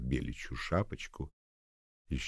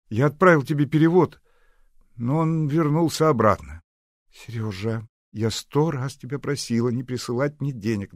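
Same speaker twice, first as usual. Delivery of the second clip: put-on young lovers on the phone; 8 semitones higher, 8 dB louder than usual. Phone dialogue Nadya and Seryozha.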